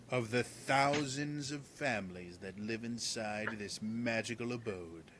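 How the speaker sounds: lightly voiced pompous guard; pompous Percival. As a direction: declaim like a self-important knight.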